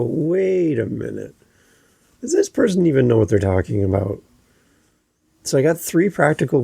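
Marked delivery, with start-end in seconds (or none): 0.0-4.2 doubtful listener. Retold or imitated. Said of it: "you start to go".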